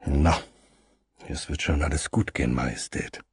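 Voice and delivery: low gruff grumble; grumbling. Acted. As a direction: rumble it low and moved. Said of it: "und brummte".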